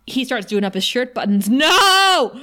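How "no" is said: drawn-out high, loud "no"; mock anguished wail. Fan protesting as he buttons his shirt, mock anguished cry. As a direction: wail in hammed-up despair.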